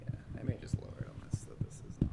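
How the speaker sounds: whispering. Real, not acted. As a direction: whisper while adjusting. Technician adjusting mic quietly.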